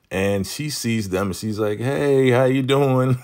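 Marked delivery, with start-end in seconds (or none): 1.8-3.2 loud, high mock-surprised greeting; feigned surprise. Joan greeting the couple at the fence, acting surprised. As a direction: act surprised to see them, pitched way up. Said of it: "Joan is really acting surprised".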